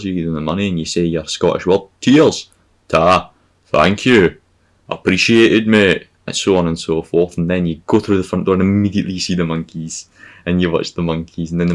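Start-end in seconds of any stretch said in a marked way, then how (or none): 2.0-6.1 loud, hearty mock gratitude; hammed-up thanks. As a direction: belt out each thank-you in turn. Acted thanks at ticket desk.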